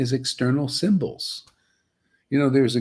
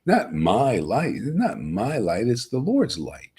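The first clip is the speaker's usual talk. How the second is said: slow, deliberate, each word set apart; measured, devout slow speech; slow humble declaration; slower than usual. Shown as a demonstration. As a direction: say it slowly, humbly giving credit away. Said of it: "you speak like that".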